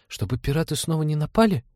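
put-on high-pitched child's question; curious little boy. A narrator's reading. Boy asks night-shift pilot about pirates, high child voice. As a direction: ask like an eager small boy.

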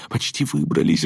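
put-on high, breathy boy's voice; urgent, airy exclamation; breathed out. A narrator's reading. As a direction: gasp it out while escaping. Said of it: "выдохнул Берти".

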